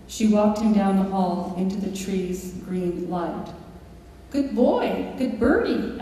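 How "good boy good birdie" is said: high parrot chatter; high pleased parrot. Retold or imitated. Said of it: "Alex said".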